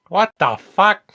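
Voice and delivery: loud, high, drawn-out disbelief; slow, high exclamation of shock; outraged disbelief. Real, not acted. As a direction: cry it out, appalled at the news. Reacting to nine chapters.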